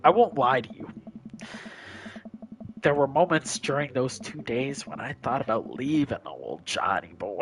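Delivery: confiding war-story voice, sinking low at the end; army veteran storyteller. Acted. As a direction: confess it like a veteran.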